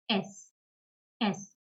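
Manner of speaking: "S" said as German ess; German letter name. Shown as a demonstration. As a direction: say "S" as an isolated ess. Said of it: "is pronounced as".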